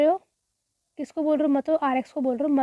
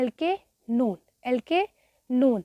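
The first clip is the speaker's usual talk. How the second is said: drawn out; much slower than usual. Shown as a demonstration. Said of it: "क्या बोलते हैं".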